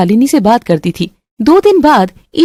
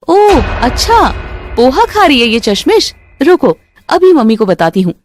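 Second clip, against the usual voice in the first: taunting sister-in-law; 3 semitones higher than usual. Acted. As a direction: drag out the gotcha. Roshni catches Isha.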